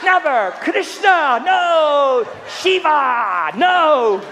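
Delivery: high, loud mock oaths, each sliding down; hammed-up outcry after a knock; acted cry of pain. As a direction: yelp each word as a pained curse. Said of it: "smack their leg and go".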